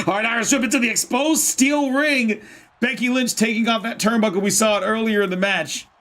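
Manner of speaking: wrestling commentator calling the action; play-by-play commentary. Pretend. Streamer calls Becky Lynch's move for viewers, wrestling commentary. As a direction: call it like a live match.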